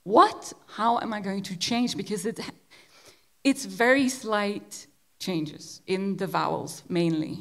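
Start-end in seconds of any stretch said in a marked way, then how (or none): 0.0-2.0 mock dismay. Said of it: "And so I thought".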